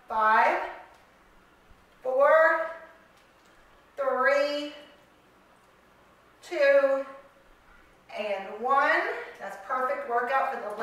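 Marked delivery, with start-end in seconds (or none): 0.1-9.0 louder push on the last reps, counting down; loud countdown. Real, not acted. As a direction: drive them through the final five.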